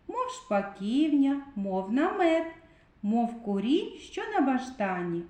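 put-on a lightly sung-out children's rhyme; poem recital. Shown as a demonstration. Teacher reads a short rhyme to the children, lightly recited. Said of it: "Послухайте віршик".

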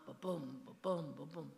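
ba-boom, light ba, hit boom; iambic beat. Shown as a demonstration. Author showing iambic rhythm with heartbeat stress. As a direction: thump it like a heartbeat. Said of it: "in iambic".

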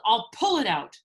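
mild acted yell. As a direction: call it out with resolve. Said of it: "he yelled".

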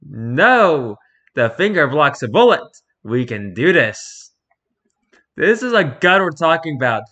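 loud stubborn protest; insistent arguer. Acted. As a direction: insist loudly that it works.

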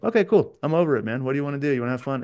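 cheery switch. Retold or imitated. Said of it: "And then be like".

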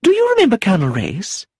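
high, eager exclamation to the niece; cried out brightly. Acted. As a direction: call across the room to her niece. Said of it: "cried Lucilla".

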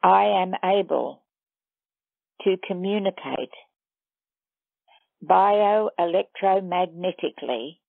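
measured meditation guide with long pauses; guided meditation. Acted. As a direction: lead listeners step by step, leaving long silences between phrases.

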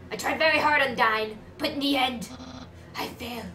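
loud character voice, dropping off at the end; non-romantic voice. Acted. Failed report to Undyne, non-romantic character voice. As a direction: start loud, then let it sink. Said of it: "This is non-romantic voice".

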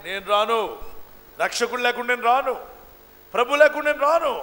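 imitated tearful refusal. Preacher voices the weeping woman refusing to leave, tearful. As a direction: plead stubbornly, building to a mock wail. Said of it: "అని ఏడుస్తుంది".

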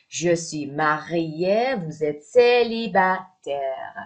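both sentences stretched slowly; slow model sentences. Shown as a demonstration. Teacher modelling the sentences slowly. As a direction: say each word slowly for learners. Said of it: "drilling sentences".

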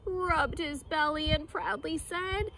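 lively storybook narration; reading to children. A narrator's reading. Teacher reads the jungle story aloud, storybook lilt. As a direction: read it like a picture book.

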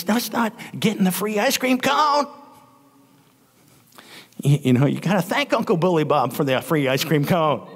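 a hint of a daddy's scolding; talking like their daddy. Preacher plays daddy prompting kids to say thanks, mild scolding. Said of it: "I'm talking like their daddy".

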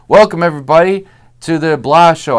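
lightly voiced TV host opening the show; talk show host greeting. TV host welcomes the studio audience, mock host cheer. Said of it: "it's De Niro saying".

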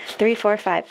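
breathless whispered count; out of breath. Real, not acted. Counting cash for viewers, breathless and whispered. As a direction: air running out on the last numbers. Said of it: "out of breath".

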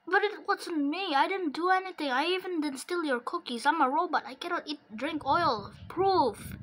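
a toy robot insisting it is innocent. Pretend. Robot pleading innocence to player.

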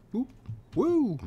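high loud whoop; excited cheer. Real, not acted. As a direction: cheer with joy at running. Cheers when he can run.

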